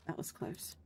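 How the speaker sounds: breathless whispered relief; relieved whisper. Acted. The paladin whispers after the dodge, relieved. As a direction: whisper it, just escaped the blast.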